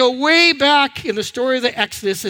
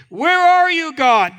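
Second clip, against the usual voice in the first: acted complaint, higher at the start; complaining; 5 semitones higher, 3 dB louder than usual. Hungry Israelites demanding answers from God, complaining. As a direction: call God to account with a grievance. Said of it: "the complaint started right away".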